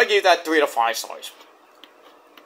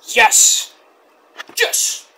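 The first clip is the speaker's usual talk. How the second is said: forceful stage whisper; breath-only, emphatic reveal; voiceless yes. Retold or imitated. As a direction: hiss out the dramatic answer. Jericho's dramatic answer retold.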